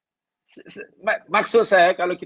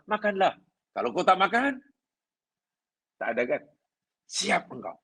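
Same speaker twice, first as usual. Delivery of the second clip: mock threatening; 4 semitones higher than usual. Shown as a demonstration.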